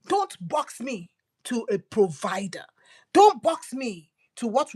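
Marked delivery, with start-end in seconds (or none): 0.1-2.6 whisper. Acted. God's plea voiced in sermon.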